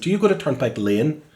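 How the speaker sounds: put-on broad northern English accent, asking the way; a Northern English lad asking a bus driver. Singer retelling asking a London bus driver, in northern English accent. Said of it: "I said in my northern accent".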